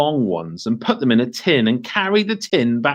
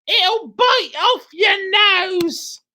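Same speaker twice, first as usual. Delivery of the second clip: slow menacing husband; 3 dB louder, much slower than usual. Acted. Mr Twit scaring wife.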